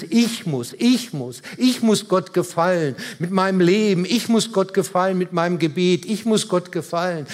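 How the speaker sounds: insistent, repeated mock self-demand; imitated self-pressure. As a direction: hammer out each repetition as mock pressure. Spielt frommen Leistungsdruck nach. (nachgeahmtes, drängendes Sich-selbst-Antreiben)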